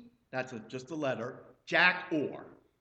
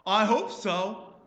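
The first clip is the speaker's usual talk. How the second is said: hesitant reply; 5 semitones higher, 7 dB louder, slower than usual. Retold or imitated. Sick man answering pastor.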